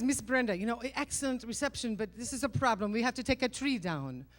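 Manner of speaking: imitating husband's Middle Eastern accent; light mock Middle Eastern accent, reasoning with her. Husband breaks a new problem to wife, Middle Eastern accent. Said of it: "I'm doing a Middle Eastern accent".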